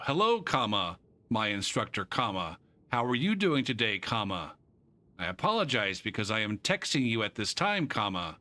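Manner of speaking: dictating the email with every comma spoken; reading out punctuation. Retold or imitated. Teacher reading a student's email, saying each comma. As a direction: read it aloud word for word, comma included.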